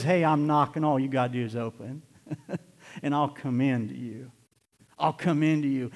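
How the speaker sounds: soft, tender invitation; gentle Jesus. Retold or imitated. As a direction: coax them gently to open the door. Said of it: "his true gentle nature".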